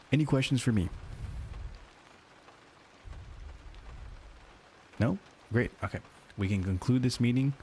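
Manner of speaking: rally the team like a proud manager; upbeat manager voice. Acted. Sales manager announcing the pizza party, upbeat. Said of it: "upbeat manager voice".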